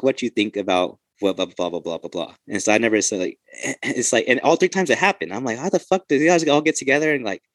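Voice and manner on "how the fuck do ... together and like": exasperated, higher-pitched retold complaint; annoyed venting. Ex-Marine venting about officers' repeated tactic, annoyed. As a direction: voice rises in mock disbelief. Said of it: "I got annoyed".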